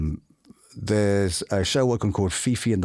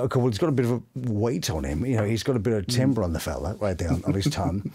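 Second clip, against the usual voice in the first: low fella voice; 3 semitones lower, faster than usual. Shown as a demonstration. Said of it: "And you kind of go".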